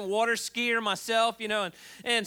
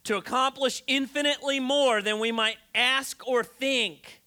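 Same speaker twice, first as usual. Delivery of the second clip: scripture reading. Acted. Reads scripture aloud.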